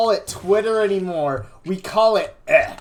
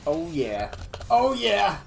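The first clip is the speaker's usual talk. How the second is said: building excitement. Acted. Repeated oh yeah growing.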